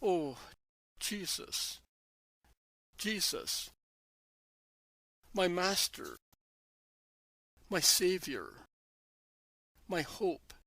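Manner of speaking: a sister crying out her loss at his feet; sobbing plea to her master; anguished cry. Acted. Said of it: "she shouts".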